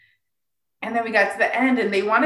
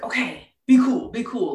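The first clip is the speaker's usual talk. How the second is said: whispered self-talk; 3 semitones higher than usual. Retold or imitated. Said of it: "And I was like".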